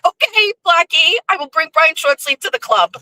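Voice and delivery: high-pitched humoring tone; amused compliance. Retold or imitated. Agreeing to Blackie's demand, amused compliance. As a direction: play along, pitched well up.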